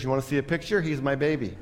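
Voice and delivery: a hint of a teary pet owner; soft, tender mock. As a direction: lightly voice her soft and sad. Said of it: "And Betty said".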